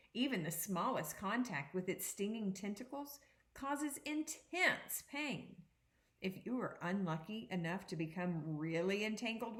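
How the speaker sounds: put-on expressive read-aloud to children; picture book read to students; reading aloud to a class. Teacher reads picture book aloud.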